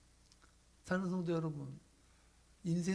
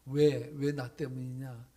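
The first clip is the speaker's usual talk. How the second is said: God's question; 6 semitones lower, 5 dB louder, slower than usual. Acted. God asks why.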